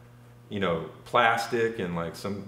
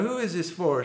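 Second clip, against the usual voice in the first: mock high woman's voice; 9 semitones higher than usual.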